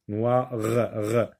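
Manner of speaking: Noir with its r split off and repeated alone; final R isolated. Shown as a demonstration. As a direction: break Noir into noi and a separate sounded r. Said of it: "le son R".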